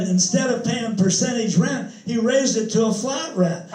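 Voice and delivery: mock outrage, half-hearted; retold cussing. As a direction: grumble like a wronged tenant, lightly acted. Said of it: "he was cussing around".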